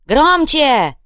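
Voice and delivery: high loud bark; barked order. Acted. Fighter ordering Bulyzhnik to shout.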